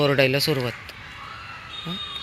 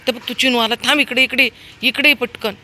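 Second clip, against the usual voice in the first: high, loud urgent calls; calling out; 7 semitones higher, 7 dB louder than usual. Real, not acted. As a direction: pull the dog back before a fight. Calling dog back. (कुत्र्याला परत बोलावणे)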